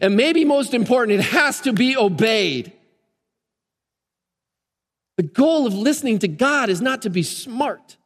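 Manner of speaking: insistent, hammered-out list of points; emphatic preaching. Acted. Preacher urging that God's voice be obeyed, emphatic. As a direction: drive each point home.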